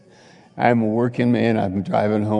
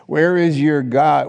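loud challenge; 5 semitones higher, 5 dB louder than usual. Acted. Preacher repeats the challenge.

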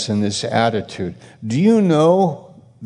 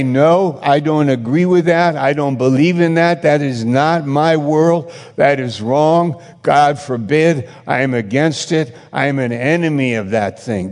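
higher, louder defiant declaration; firm refusal; 3 semitones higher, 3 dB louder than usual. Pretend. The preacher voicing a believer's defiant stand against wrong. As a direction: plant your feet and refuse it. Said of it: "I would say".

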